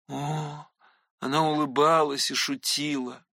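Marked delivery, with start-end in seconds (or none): none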